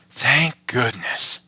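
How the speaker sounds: slow, relieved rabbit; slow relieved thanks; relieved sigh. Acted. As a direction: breathe out the relief. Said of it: "said the rabbit".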